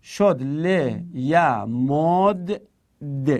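ل ی مد د said slowly with the دال held; syllable by syllable. Shown as a demonstration. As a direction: spell out لَ یَمْدُدْ slowly. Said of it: "این رو ساکن کردید". (هجا به هجا)

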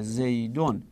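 very slow, word by word: زیدون یکونو فی الدار; dictating the hidden verb slowly to students; slow spelled-out demo. Shown as a demonstration. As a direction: lay out یکونو and استقر slowly for the class.

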